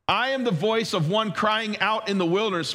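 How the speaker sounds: "crying out in the wilderness" as one phrase; no break before "in the wilderness"; in the wilderness joined to crying out. Shown as a demonstration. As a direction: run "crying out" straight into "in the wilderness". Quotes John's wording to contrast.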